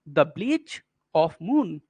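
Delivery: "bleach" and "moon" stretched and stressed; slow verse scansion. Shown as a demonstration. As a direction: take "the bleach of moon" slowly, beat by beat. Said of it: "देखिए कैसे पढ़ना है आपको". ("bleach" और "moon" को खींचकर)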